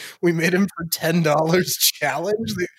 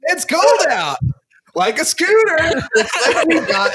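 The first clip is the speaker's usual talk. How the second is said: high, breaking with laughter; laughing hard; 12 semitones higher, 4 dB louder than usual. Real, not acted. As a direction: squeeze words out through laughing. Laughing fit, mock voice.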